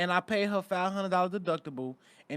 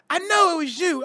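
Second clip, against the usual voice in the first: put-on high Pittsburgh girlfriend; 11 semitones higher, 9 dB louder than usual. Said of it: "She said".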